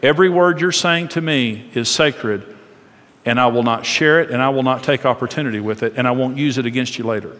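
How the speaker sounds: low, steady, hushed pledge; solemn, confidential reassurance; reassuring promise. Acted. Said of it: "you let him know".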